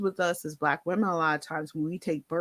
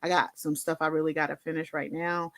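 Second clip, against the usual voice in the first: brushing it off; 6 dB quieter, faster than usual. Retold or imitated. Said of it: "And I was like".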